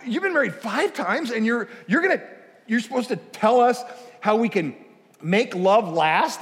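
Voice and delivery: disbelieving, drag out make love last; host mocks the five-times-married expert; incredulous. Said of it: "And I said".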